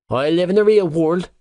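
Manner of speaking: spitting it angrily; spat out. Acted. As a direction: bite the words out. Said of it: "he spat".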